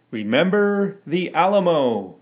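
loud battle cry; rallying shout. A narrator's reading. Crowd of men shouting their battle cry.

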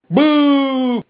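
long, high-pitched boo; crowd booing. A narrator's reading. Mob heckles the metal professor, crying a long high boo. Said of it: "cried several hundred voices".

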